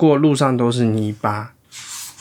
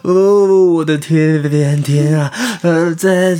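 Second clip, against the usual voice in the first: 冷得发抖; slower than usual. Acted. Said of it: "牙齿咯咯作响地说".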